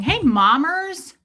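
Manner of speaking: high snake voice. Retold or imitated. Snake voiced greeting her.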